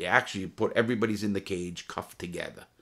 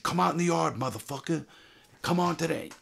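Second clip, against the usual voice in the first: calling out; 9 semitones higher than usual. Retold or imitated. Calling challenge through cell door.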